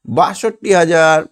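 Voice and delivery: বাষট্টি হাজার said slowly, each syllable drawn out; slow teaching read-out. Shown as a demonstration. Teacher to pupil, slowly giving the answer বাষট্টি হাজার. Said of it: "তাহলে এখানে হবে".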